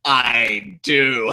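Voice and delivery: a lightly voiced menacing lean-in; mock menace, close and low; menacing whisper. Friend retells Shinsuke leaning in, lightly menacing. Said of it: "he leans in".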